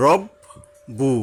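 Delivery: রব then বু, slowly apart; split syllables. Shown as a demonstration. Teacher repeating the split for the class. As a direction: break রব্বুকা into its halves. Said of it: "বাকেই আমরা দুইবার উচ্চারণ করলাম".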